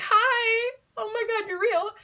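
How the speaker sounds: high, teary, awed squeal; starstruck fan. Retold or imitated. Fan meeting a singer, high and teary with awe. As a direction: gush like you can't believe it.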